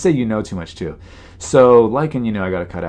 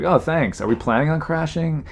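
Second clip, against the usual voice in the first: sarcastic; 6 semitones higher than usual. Retold or imitated. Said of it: "It's like".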